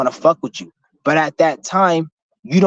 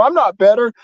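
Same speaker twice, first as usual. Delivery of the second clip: mock denial, pitched up; higher, lightly acted protest; playing it off; 5 semitones higher than usual. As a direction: imitate someone backing down from a claim. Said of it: "try to play it off".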